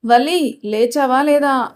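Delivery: slow, drawn-out wake-up call; unhurried calling through a door; calling to wake someone. Acted. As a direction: stretch the name out to rouse a sleeper. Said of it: "మరోసారి పిలిచింది".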